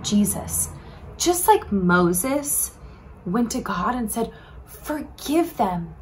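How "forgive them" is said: slow, soft plea; pleading. Acted. Moses pleads with God for the people, slow and gentle. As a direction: beg for mercy slowly. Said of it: "pleaded with God".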